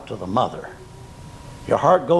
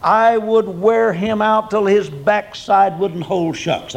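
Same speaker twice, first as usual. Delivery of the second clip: stern church gossip; 3 semitones higher, slower than usual. Retold or imitated. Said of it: "But he says".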